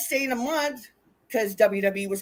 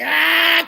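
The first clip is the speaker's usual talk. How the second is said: long, louder, higher imitated bawl; mock crying wail; 6 semitones higher, 9 dB louder than usual. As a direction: act out a drunk wailing. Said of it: "crying in the ring".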